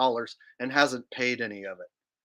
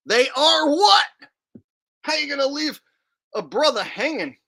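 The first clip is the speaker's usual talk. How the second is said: indignant surprise; 13 semitones higher, 6 dB louder than usual. Real, not acted. Streamer reacting to a viewer's cut-off super chat, high and indignant. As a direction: throw up your hands at a message cut short.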